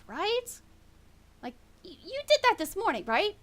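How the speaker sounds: lightly voiced wife, pitch lilting up; a hint of an orc wife gently checking on her husband; orc farmer's wife.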